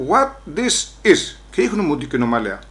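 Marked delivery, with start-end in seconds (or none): 0.1-1.4 policeman's English. Retold or imitated. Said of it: "Λέει μου ο ένας".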